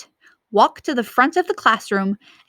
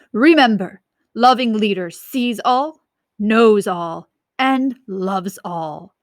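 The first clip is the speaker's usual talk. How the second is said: creepy leader slogan; slower than usual. Acted.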